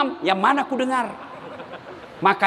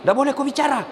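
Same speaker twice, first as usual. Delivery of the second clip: quick mock scolding; much faster than usual. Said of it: "dia bilang samping".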